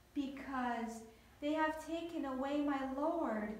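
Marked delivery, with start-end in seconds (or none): none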